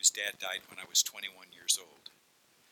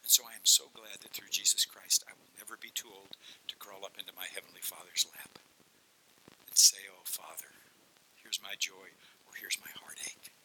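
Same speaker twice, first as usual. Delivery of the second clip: tender hush. Real, not acted. Tender words about Heavenly Father.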